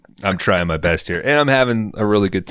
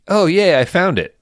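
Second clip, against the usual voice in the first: imitating Megan; 11 semitones higher, 3 dB louder than usual. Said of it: "I think she even says".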